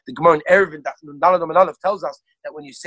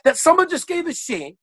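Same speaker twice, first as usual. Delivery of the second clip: raised, incredulous protest at the yeshiva; retold indignation; 7 semitones higher than usual. Lecturer retelling Rav Zalman's dismay, mock indignant. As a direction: voice the sage's shocked outrage, higher pitched. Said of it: "He was so upset".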